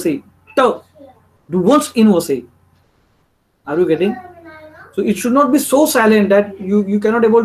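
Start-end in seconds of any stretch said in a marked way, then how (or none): 0.6-2.3 very slow "wohnst", every end consonant given; sounded final T. Shown as a demonstration. Teacher drilling the final T, very slow "wohnst". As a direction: separate "wohnst" from "in" after its S-T. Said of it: "final t".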